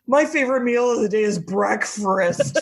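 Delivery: lightly slurred lisp; mock lisping voice. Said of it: "That was me".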